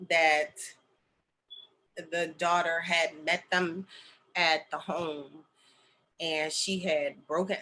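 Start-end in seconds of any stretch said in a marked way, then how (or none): 2.1-7.6 slow, quiet, voice close to breaking; holding back tears as the news lands; getting emotional. Real, not acted. Telling what happened to the client's family, choking up. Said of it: "see, I'm about to get emotional".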